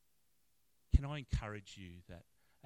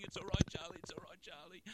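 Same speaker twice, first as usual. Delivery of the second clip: retold reassurance; 10 semitones higher than usual. Retold consoling of sobbing man.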